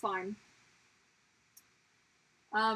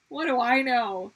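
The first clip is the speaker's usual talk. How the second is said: What do I know? repeated much louder with stress on do; 10 dB louder than usual. Shown as a demonstration. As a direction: throw it out louder the second time.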